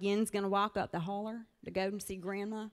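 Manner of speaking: Ozark dialect. Retold or imitated. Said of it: "but we would say things like".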